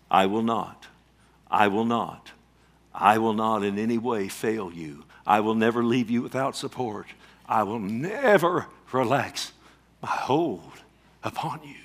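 deliberate, spaced-out repeats of "I will not"; emphatic promise. Acted. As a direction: stretch "never" and leave weighty pauses after "relax" and "my hold". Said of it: "three times, emphatic in the Greek".

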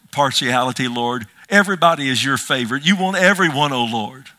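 earnest spoken prayer, swelling on the praise; fervent prayer. Real, not acted. Pastor thanking the Lord for showing no partiality, fervently prayerful. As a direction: lead the congregation in heartfelt prayer.

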